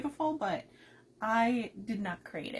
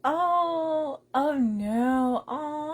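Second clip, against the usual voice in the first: sympathetic cry; 4 semitones higher, 7 dB louder, much slower than usual. Real, not acted. Reads a friend is ill.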